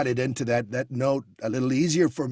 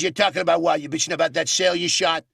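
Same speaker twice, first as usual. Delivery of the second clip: Baldwin-style Trump; faster than usual. Retold or imitated. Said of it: "like Alec Baldwin in the movie Glengarry Glen Ross".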